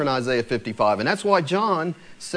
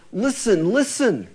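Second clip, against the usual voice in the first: pleading; 6 semitones higher, 3 dB louder, slower than usual. Retold or imitated. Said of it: "he's really saying".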